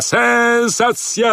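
very high, very slow final call; climactic barker cry. Acted. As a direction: soar up on the last sensacja.

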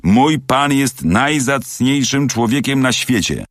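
high, slow, emphatic defence; indignant loyalty, stretched for emphasis; indignant exclamation. A narrator's reading. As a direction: stand up hotly for your master. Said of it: "wykrzyknął obieży świat i uderzył w stół pięścią".

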